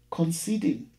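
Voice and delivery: measured, dramatic poetry reading; poem reading. Acted. Teacher reading a poem to the class, dramatic recital. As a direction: read it like a performed poem, every image weighed. Reads poem Telephone Conversation aloud.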